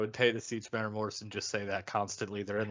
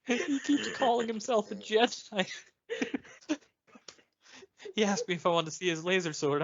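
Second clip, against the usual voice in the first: kid Anakin impression; 8 semitones higher than usual.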